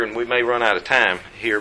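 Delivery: ordinary talk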